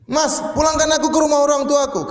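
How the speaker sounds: high-pitched demanding wife; defiant wife. Acted. Wife demanding husband send her to her parents, defiant. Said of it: "Apalagi istrinya nantang".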